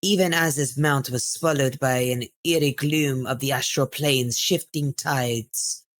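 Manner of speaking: storyteller reading a pulp adventure; dramatic book reading. Acted. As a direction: read it like an old serial. Reads in-game book aloud.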